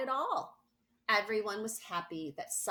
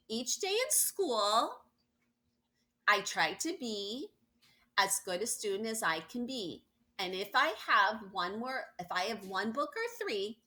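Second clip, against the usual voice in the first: halting reading; 2 semitones higher than usual. Acted. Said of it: "started reading".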